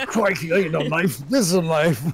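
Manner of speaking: mock Australian tough talk; Aussie accent. Joking with friends in a movie line, mock Aussie accent. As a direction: quote it in a put-on Aussie accent. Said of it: "He does love those Aussie accents".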